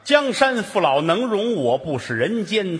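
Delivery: recited couplet. Acted. Recites closing couplet slowly.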